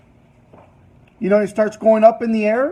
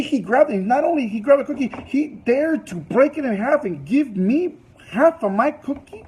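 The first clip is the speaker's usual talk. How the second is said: mildly raised, indignant retelling; acted anger; 3 semitones higher than usual. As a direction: voice her offended disbelief, pitch rising at the end. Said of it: "she's super angry".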